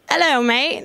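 American having a go at an English accent; badly faked London English greeting; attempted English accent. Shown as a demonstration. Host trying a Londoner's greeting for British guests, shaky English accent attempt. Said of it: "never be able to do an English accent".

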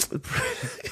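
short high squeal of laughter; squeaky laugh. Real, not acted. Cracking up at the article, squeaky.

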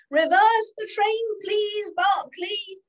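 high, loud, slow call, softening on please; yelled order. Acted. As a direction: shout the order down the platform. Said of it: "yelled Clarence".

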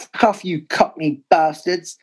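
mock shouted insult at the home fans; retold shout. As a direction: yell it like an angry away fan. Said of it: "shouting out".

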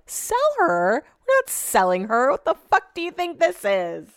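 a mock-indignant high rise on sell her; retold outraged disbelief. To Brett, who wants to sell the dog, in mock-indignant disbelief.

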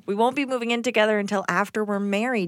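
radio voice. Shown as a demonstration. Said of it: "Talk like, like a radio person".

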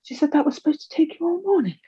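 high, sing-song carer voice talking down; mock a patronising day centre worker; condescending carer. Day centre worker offers decoupage, high patronising sing-song. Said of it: "She says".

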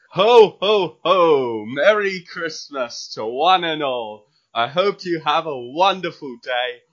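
jolly Santa-style greeting, lightly voiced; hearty festive voice message. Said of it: "give our lovely listeners an example".

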